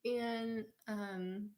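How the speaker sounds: slow, giggling through it; laughing. Real, not acted. Vlogger laughing about her favourite movie quote. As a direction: let the laugh carry the words.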